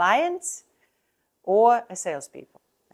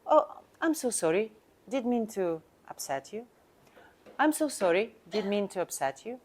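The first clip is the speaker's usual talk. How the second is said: apologetic tone. Shown as a demonstration. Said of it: "Listen to my tone".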